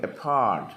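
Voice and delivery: "a part" with a small "a" and a strong "part"; stress on second syllable. Shown as a demonstration. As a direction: land hard on "part" in "a part". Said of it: "രണ്ടാം syllable-ായിരിക്കും". ("a part": "a" താഴെ, "part" ശബ്ദം കൂട്ടി)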